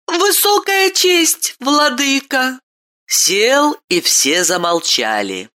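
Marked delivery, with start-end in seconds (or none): 0.0-2.6 put-on much higher child's voice, grown-up formality; a child addressing a lord like a grown man; boy speaking like an adult. A narrator's reading. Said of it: "как взрослый".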